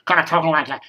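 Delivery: talking out of side of mouth; lopsided mouth from cold sore. Real, not acted. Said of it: "talking out of the side of my mouth".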